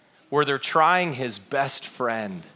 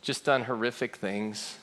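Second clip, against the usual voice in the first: low, soft, spaced-out words; hushed, solemn listing; 4 semitones lower, 7 dB quieter than usual. Real, not acted. Preacher naming the failures we all understand, hushed and solemn. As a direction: weigh each item quietly.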